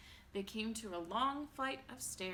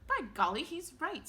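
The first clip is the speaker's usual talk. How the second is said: put-on excited old man; 8 semitones higher, 8 dB louder than usual. A narrator's reading. Grandpa Joe's exclamation.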